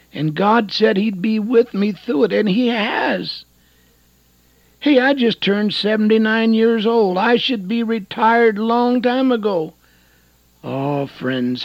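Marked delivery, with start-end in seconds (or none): 0.1-9.7 raised, higher-pitched preacher's voice; preaching. Real, not acted. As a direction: preach it out loud and high.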